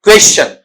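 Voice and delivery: क्वेश्चन as westʃən with a ch; teacher repeating the right क्वेश्चन; correct pronunciation. Shown as a demonstration. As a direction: model क्वेश्चन with the ch sound. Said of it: "इसे क्या पढ़ना".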